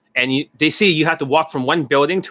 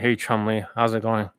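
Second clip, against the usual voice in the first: weird voice; 4 semitones lower, 4 dB quieter than usual. Retold or imitated. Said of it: "I'm talking like this with this weird voice".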